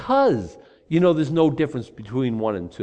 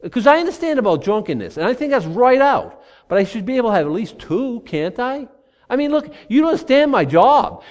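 rationalizing drinker; 2 semitones higher, 3 dB louder than usual. Pretend. Pastor acting a man justifying more wine, insistent. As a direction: argue yourself into a second glass.

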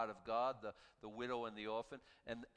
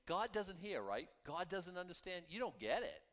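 higher, taunting voice of the scoffers; mocking tone; 5 semitones higher than usual. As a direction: sneer it out as the ones who mock God. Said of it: "he's mocking them".

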